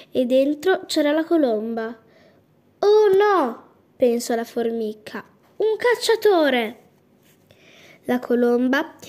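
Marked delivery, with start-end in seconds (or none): 2.8-3.6 higher, louder gasp of alarm; sudden fright at the hunter; alarmed cry. A narrator's reading. Ant sees dove caught. 5.6-6.8 higher exclamation of alarm; alarmed cry. A narrator's reading. Ant spots the hunter.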